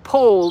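"Pole" said with a long oh vowel; "Pole" as one drawn Southern syllable; clarifying pronunciation. Shown as a demonstration. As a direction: say "Pole" carefully, rounding the oh. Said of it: "it may sound like pool".

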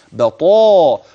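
بطاء slow with a full emphatic taa and a long aa; heavy taa. Shown as a demonstration. Teacher exaggerating the emphatic taa for students. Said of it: "الطاء في أعلى مراتبها".

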